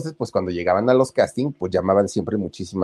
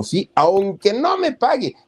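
eager yes; 11 semitones higher, 3 dB louder, slower than usual. Acted. Eager mother accepting the offer.

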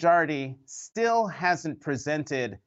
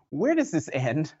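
laughing nervously; 2 semitones higher than usual. Real, not acted. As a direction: speak through an anxious chuckle. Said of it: "I have had that nervous laugh".

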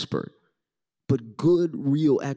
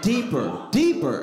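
mock urging; 6 semitones higher, slower than usual. Doctor urging the patient, rising pushy calls. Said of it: "'Cause he was like".

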